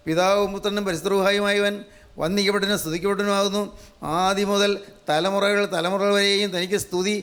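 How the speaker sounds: drawn-out solemn acclamation, stretching Hallelujah; slow liturgical proclamation. Shown as a demonstration. Preacher demonstrating the liturgy's acclamation, slow and solemn. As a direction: chant it slowly to the congregation like a liturgy. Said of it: "ഇതാണ് അട്ടഹസിച്ച് പറയേണ്ടത്".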